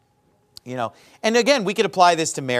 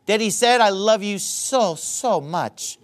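mock wrong version; 4 semitones higher, slower than usual.

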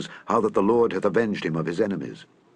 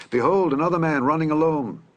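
a raised call to the porter below, pitched higher; 7 semitones higher, 3 dB louder than usual. A narrator's reading. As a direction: call it down from the wall. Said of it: "the watchman called unto the porter".

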